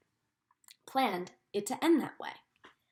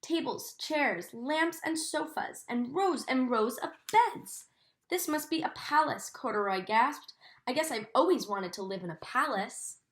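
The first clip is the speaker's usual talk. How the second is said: gentle storybook reading for a class; reading to children. A narrator's reading. Teacher reading Corduroy to her class, in a storybook voice. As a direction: read the story to the children, savouring each sight. Teacher reads picture book aloud.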